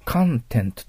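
カ in カンテント punched stronger; stress on カ. Shown as a demonstration. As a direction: hit the first syllable カ of カンテント harder. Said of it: "カの方が強いような気".

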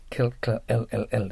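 "L" repeated with the L sound clearly made; firm L. Shown as a demonstration. Teacher isolates the sound for learners, a firm, repeated "L". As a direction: drill "L" crisply, over and over. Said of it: "Lの発音をしっかり出す".

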